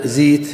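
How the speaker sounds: زيت with a full kasra, said as zit. Shown as a demonstration. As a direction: pronounce زيت with a pure i vowel, zit. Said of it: "يقلبون فتحة الزاي إلى كسرة فيقولون".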